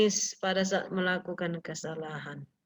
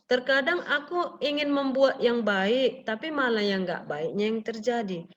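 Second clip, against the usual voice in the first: quoting Paul slowly. Retold or imitated. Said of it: "seperti kata Paulus".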